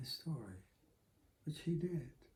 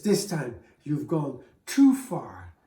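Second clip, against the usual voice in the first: angry father; 7 dB louder, slower than usual. Acted. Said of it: "he got so angry".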